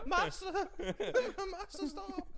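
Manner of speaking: loud high elf pleading; Dobby squeal. Pretend. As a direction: shriek it like a begging house-elf. Dobby voice joke.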